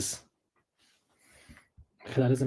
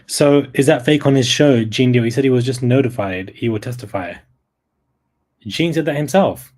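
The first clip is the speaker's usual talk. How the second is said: loud, worked-up disbelief; louder, incredulous; excited; 8 dB louder than usual. Real, not acted. Excited about Gene Deal testifying.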